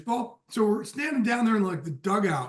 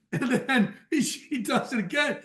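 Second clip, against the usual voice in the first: laughing; 5 semitones higher than usual. Real, not acted. Laughing while retelling prank.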